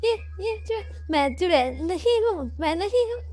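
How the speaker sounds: high squeaky cartoon animals shrieking in fright; panicked little critters crying witch, very high; frightened animal voices. A narrator's reading. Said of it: "Gauri को देख के सारे डर जाते हैं". (बहुत ऊँची, डरी हुई जानवरों की आवाज़)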